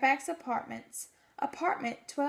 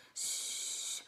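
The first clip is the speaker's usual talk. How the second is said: whisper; 10 dB quieter than usual. Pretend. Tiny voices test sound.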